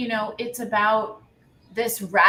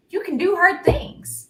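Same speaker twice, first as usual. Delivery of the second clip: slow, higher quote in a put-on accent; Kim Quinlan accent; 10 semitones higher, 4 dB louder, slower than usual. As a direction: lightly mimic her accent, drawn out. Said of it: "You have to say it in the accent, Liz, the accent".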